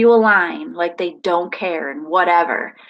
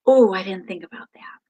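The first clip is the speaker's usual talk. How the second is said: put-on child's whisper; 2 semitones lower than usual. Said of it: "he got this look on his face like".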